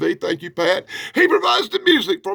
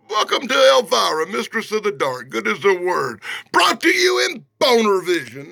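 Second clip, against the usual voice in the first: mock announcer; 2 semitones higher than usual. Hyping the comic like an announcer.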